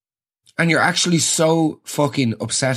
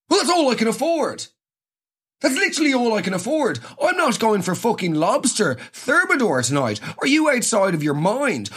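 higher, exasperated ranting; comic rant at the dentist's advice; indignant rant; 3 semitones higher than usual. Real, not acted. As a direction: vent at the absurd advice. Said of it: "ranting at the dentist".

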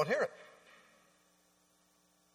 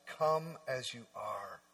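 lower, softer and slow; tender Jesus voice; 6 semitones lower, 10 dB quieter, slower than usual. Acted. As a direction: speak it gently like a shepherd. Jesus' gentle voice contrasted.

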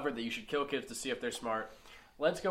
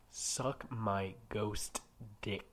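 mock Dan Aykroyd; 6 semitones lower, 5 dB quieter, much slower than usual. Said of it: "My name is Dan Aykroyd".

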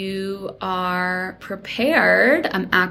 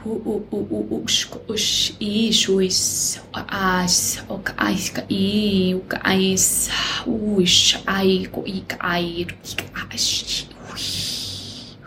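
light language channeling; 4 semitones higher than usual. Acted. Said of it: "channel some light language for you".

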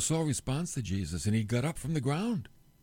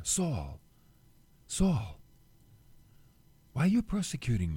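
a gentle, tender call, not rebuking. Acted. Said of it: "It was tender".

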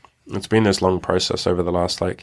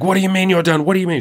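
imitating her high, louder yell of disbelief; mock a shocked partner shouting back, pitched way up; girlfriend yelling; 11 semitones higher, 4 dB louder, faster than usual. Girlfriend shouting at him when he says he's done, high mock yell. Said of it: "She's, like, yelling".

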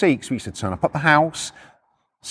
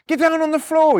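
high-pitched mock shout; shouted police order; 12 semitones higher than usual. Copper with baton out ordering repo man down, shouting. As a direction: bark the order, much higher. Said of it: "They're all fucking shouting at us".

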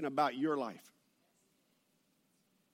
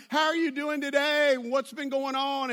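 higher-pitched, friendly hello; chatty greeting; 5 semitones higher than usual. Retold or imitated. Pastor greeting the lady at the store, chatty. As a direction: act out an upbeat greeting.

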